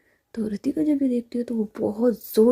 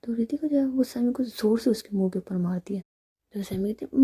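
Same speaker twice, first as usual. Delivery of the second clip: plain reading voice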